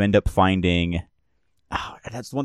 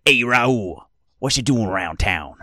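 lightly voiced weasel man, raised greeting; Skeevy Lenny; 3 semitones higher than usual. Weasel man hailing Raul around town, lightly voiced. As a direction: greet them with a hint of shady weasel. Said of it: "He's like".

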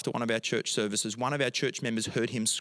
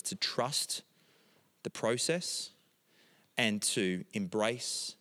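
prayer. Acted. Closing prayer, soft start.

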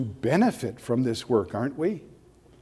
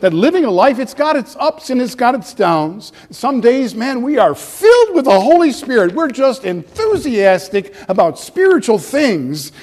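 enthusiastic preaching; 8 semitones higher, 6 dB louder than usual. Real, not acted. Preacher paints spiritual highs.

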